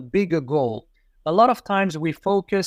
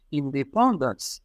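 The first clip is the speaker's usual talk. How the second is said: "independence" said slowly in a French accent, even stress, nasal "pan". Shown as a demonstration. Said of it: "Even if they say it with a French accent".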